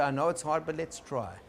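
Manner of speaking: gentle encouragement. Shown as a demonstration. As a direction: gently nudge someone who is scared to move. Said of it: "hold them gently and say".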